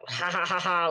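a light, half-hearted evil chuckle; imitating a toddler's creepy laugh, only lightly; mock demonic laugh. Mother imitating her daughter's little demonic laugh, lightly. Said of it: "laugh demonically a little bit".

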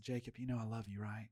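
soft, low, retold fatherly reassurance; gently affirming pastor. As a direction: lightly imitate a mentor easing into correction. Retold pastor's gentle lead-in to correction.

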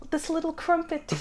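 a light cockney relish on crumpet; mock cockney. Co-host savouring the gangster line in a mild cockney accent. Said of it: "the full quote".

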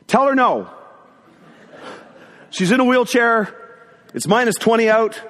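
high, emphatic refusal; dad's exasperated called-out no; calling back. Retold or imitated. Dad refusing the request from upstairs, calling out.

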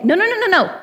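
high, insistent no, no, no, brushing off shame; fierce loving refusal. Pretend. Sibling in Christ refusing your shame, high and emphatic. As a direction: shoo away the shame like a protective sibling. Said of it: "and they will say".

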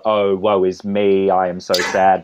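mock operatic lament. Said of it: "singers are singing very verismo".

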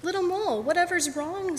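high-pitched, concerned mother's question. Acted. Mother mole asking her sad son what's wrong, concerned.

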